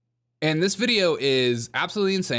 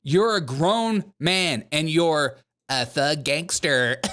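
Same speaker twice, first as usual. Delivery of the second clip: laughing mock; slower than usual. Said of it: "I was like".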